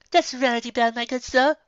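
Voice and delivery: Rarity correcting the referee, prim; lightly voiced prim correction. A narrator's reading. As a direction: correct him politely but firmly.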